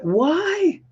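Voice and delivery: high, exasperated put-on "why"; mock bewildered why. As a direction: whine the question as if baffled. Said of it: "you're gonna be like".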